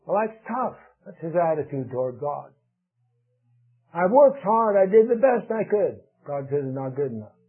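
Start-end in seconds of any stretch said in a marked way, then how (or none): 3.9-6.0 mildly indignant Cain. Retold or imitated. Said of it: "Cain's angry".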